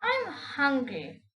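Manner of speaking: slow, drawn-out hungry spider; spider announcing. Acted. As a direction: stretch it out like a menacing spider. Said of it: "the spider announced suddenly".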